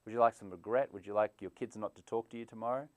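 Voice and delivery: mock cheerful waiter offering poison; smiling assassin. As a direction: sell poison with a fake friendly smile. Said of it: "The smiling assassin here".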